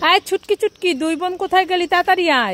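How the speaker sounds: put-on mother calling her kids. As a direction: call the children in from another room. Mother calls the children over.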